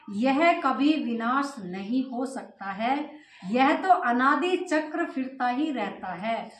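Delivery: slow, measured reading aloud; scripture reading. Acted. Teacher reads Baba's words to the class, measured scripture reading. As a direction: read out each phrase deliberately.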